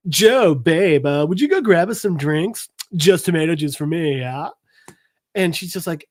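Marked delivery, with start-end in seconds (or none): 0.1-4.5 a hint of snotty East Coast money; lightly put-on East Coast rich-jerk accent; East Coast rich-kid accent. Rich boyfriend ordering drinks, dismissive East Coast accent. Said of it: "East Coast, uh, Richie Rich fuck you accent".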